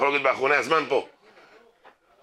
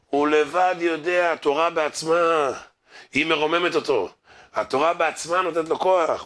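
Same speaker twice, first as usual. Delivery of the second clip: preaching; 4 semitones higher than usual. Real, not acted. Preaches the moral with force.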